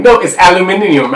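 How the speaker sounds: mock British "aluminium", five syllables; a light British accent on "aluminium". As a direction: say "aluminium" the British way, al-yoo-MIN-ee-um. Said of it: "She'd be like".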